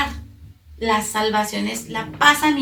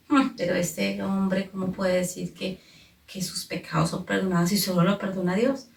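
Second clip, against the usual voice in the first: scornful doubt; 3 semitones lower, 3 dB quieter than usual. Acted. Voicing the judging Pharisees.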